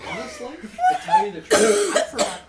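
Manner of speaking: squealing with laughter; laughing high and loud. Real, not acted. GM laughing at himself.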